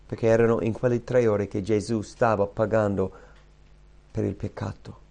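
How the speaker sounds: normal talking voice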